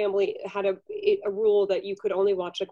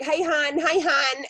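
Dunkin' sisters' greeting; 5 semitones higher, slower than usual. Retold or imitated. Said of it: "they'd always be like".

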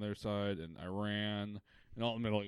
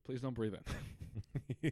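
very slow calm warning; slow announcement; 3 semitones higher, much slower than usual. Retold or imitated. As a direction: draw it out like a PA. Mock safety announcement.

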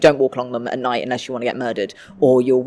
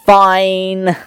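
grudging "fine"; 6 semitones higher, 8 dB louder than usual. Retold or imitated. Grudging agreement.

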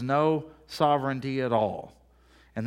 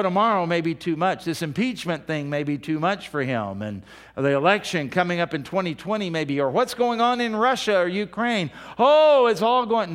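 mock panic; 2 semitones higher than usual. Preacher mocking fears that God will fall: sarcastic mock alarm. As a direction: pretend to fret that God can't cope.

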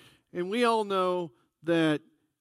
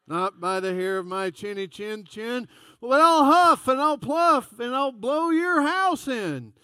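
little pig's shrill defiance rising into a yell; pig building to a shout; 6 semitones higher, 8 dB louder than usual. Retold or imitated. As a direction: start defiant, end shouting the wolf's threat. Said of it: "And the pig says".

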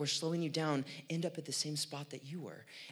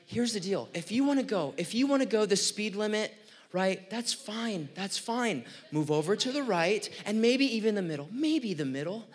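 louder, higher heated venting to the congregation; worked-up rant; 4 semitones higher, 6 dB louder than usual. Real, not acted. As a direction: let the frustration spill out, fast and hot. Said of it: "you're getting me all worked up".

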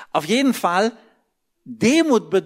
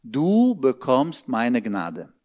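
voice of God; 5 semitones lower, slower than usual. Retold or imitated. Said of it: "Da sagt Gott".

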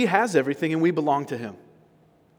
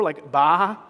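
a quick mock baa, just slightly louder; sheep bleat; 4 dB louder than usual. Preacher mimics a sheep to his congregation, mock bleat. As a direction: bleat like a sheep to amuse the room. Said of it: "heard a sheep bleat before".

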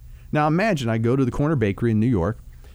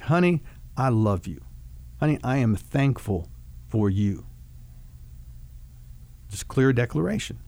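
softer, calmer, unhurried words to a spouse; gentle talk to wife; 3 dB quieter than usual. Shown as a demonstration. Husband modelling a loving confrontation to his wife, softly and calmly. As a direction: talk to her tenderly, like you mean it. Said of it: "Something like".

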